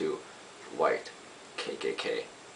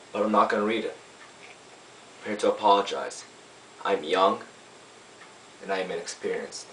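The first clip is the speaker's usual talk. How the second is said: lightly acted lawyer addressing a jury; lawyer's summation. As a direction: deliver a courtroom apology in measured phrases with pauses. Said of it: "I play a lawyer".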